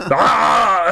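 high, hammed-up strangled "Ah"; mock Arnold yell. Co-host answers the Arnold remark, high mock yell. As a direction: cry out like a cartoon action hero. Arnold-style cry after the impression.

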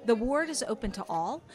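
calm, unhurried storyteller narration; scene narration. Acted. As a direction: paint the market scene for players. Game master sets the scene.

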